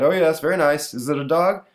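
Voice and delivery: dad voice. Acted.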